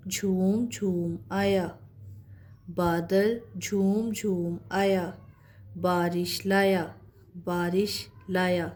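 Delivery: put-on slow, careful read-aloud of a children's rhyme line by line. Teacher reading a rhyme to her pupils, slow and clear. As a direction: read each phrase slowly and clearly for young learners. Reads practice sentences aloud slowly.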